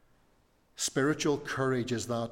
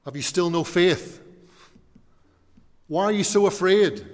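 louder, higher, scolding each question; harsh rebuke; 6 semitones higher, 10 dB louder than usual. Shown as a demonstration. Pastor imagining himself scolding a member in their home, loud rebuke. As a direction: bark the questions at a frightened friend. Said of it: "can't imagine me coming into your house and saying".

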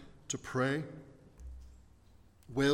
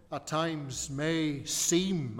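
"seem" drawn out slowly and deliberately; stress on seem; much slower than usual. Real, not acted. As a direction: lean on the word "seem", stretching it. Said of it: "I stress the word seem".

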